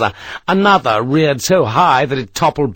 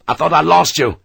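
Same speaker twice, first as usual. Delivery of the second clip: calling out; 4 semitones higher than usual. Acted. Sharp calls to Harper on his return, calling out. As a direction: call it across to him. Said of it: "he called out to Harper".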